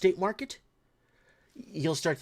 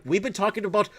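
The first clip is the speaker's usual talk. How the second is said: heated retort; 4 semitones higher, 4 dB louder than usual. Retold or imitated. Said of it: "I'm like".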